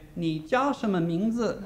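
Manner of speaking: imitating painfully slow speech to a learner; slow baby talk. Chinese people asking a foreign learner his name, slow baby talk. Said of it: "talking really slow like that".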